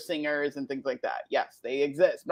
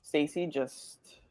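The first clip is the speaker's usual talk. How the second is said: low, slow and held back; woosah self-calming; 4 semitones lower, 9 dB quieter, slower than usual. Acted. Woman calming herself on the drive home, slow woosah manner. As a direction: talk yourself down. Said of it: "I literally have a woosah moment".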